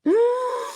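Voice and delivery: sharp, high intake of breath; mock gasp. Mom reacts to what daughter told her, gasping. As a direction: gasp in feigned shock.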